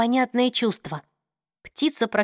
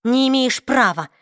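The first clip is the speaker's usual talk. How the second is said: curt retort; 3 semitones higher, 4 dB louder than usual. Acted. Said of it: "отрезала Клэри".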